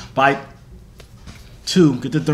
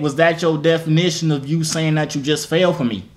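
put-on higher, insistent country-accented repeat; pressing the point in a put-on country accent; 5 semitones higher than usual. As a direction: spell it out in a raised country-boy voice. Repeating himself to a listener who missed it.

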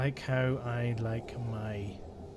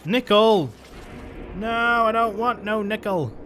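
higher and louder, playfully fed up; mock annoyed outburst; 6 semitones higher, 6 dB louder than usual. Real, not acted. Gamer rejecting useless loot, mock annoyed shout. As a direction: shove the nickel away, half-joking. Rejects unwanted resource loudly.

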